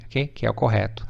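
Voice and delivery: ordinary talk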